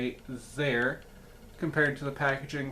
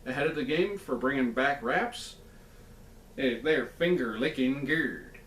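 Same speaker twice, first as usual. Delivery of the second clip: Colonel Sanders voice. Acted. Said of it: "let me do that in the Colonel's voice".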